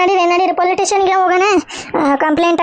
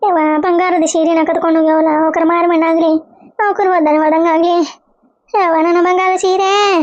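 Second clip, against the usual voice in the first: wailing lament. Acted. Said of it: "ನೀ ಯಾಕೆ ಇಷ್ಟ್ ಅಳಾಕತ್ತಿದಿ".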